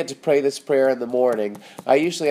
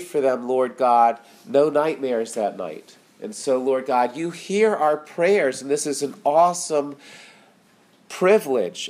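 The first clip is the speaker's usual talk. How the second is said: prayer. Acted. Pastor closing the sermon in prayer, earnest spoken prayer. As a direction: pray it over the listeners.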